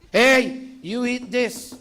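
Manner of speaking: loud, high command to eat; stern mother. Acted. Old-school parent ordering a child to eat, loud. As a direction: bark it like a no-nonsense parent. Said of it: "You know what my, my mom would say".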